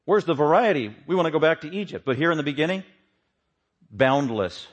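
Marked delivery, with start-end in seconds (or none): 0.0-2.0 raised-pitch imitation of grumbling people; mock complaining. Preacher imitates the people in the wilderness, mock complaining. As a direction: complain in a lightly acted protest. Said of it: "the people started complaining".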